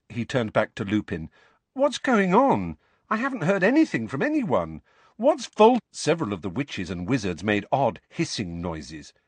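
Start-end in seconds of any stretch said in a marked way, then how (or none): 1.7-5.8 high, rising, insistent questioning; urgent demand. Acted. Boy demanding news from Lupin, urgent and high. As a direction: press for answers, getting louder until cut off.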